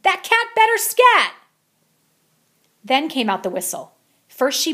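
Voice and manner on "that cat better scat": high, loud bellow. A narrator's reading. Missus Begalot storming the lunchroom, loud bellow. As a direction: boom it down the hall. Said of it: "she bellowed".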